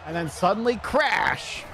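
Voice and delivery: put-on a cranky Southern homeowner yelling about vandals, in a Southern accent; grumpy Southern old man. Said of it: "you're doing a Southern accent".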